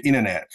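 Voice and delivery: イネネ with the t's dropped, as "innernet"; American-style イネネ, final t swallowed; American pronunciation. Shown as a demonstration. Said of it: "アメリカ行くとね".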